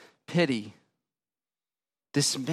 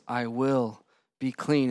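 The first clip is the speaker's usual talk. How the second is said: gentle promise; 4 semitones lower, 4 dB quieter, slower than usual. Acted. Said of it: "and says".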